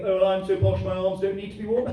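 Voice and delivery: lightly voiced posh type; a hint of mock-posh; posh person. Comedian mimicking posh people in gilets, lightly posh. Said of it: "those kind of posh people".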